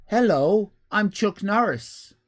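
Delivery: a lightly voiced Chuck Norris, slightly slow; mild attempt at the tough guy's greeting; bad Chuck Norris impression. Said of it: "It's a bad impersonation".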